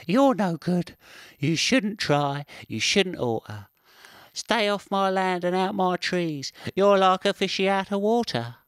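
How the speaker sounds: high, loud jeering squirrel voice; taunting squirrel. Acted. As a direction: crow over the stranded fish. Squirrel taunts the stranded fish.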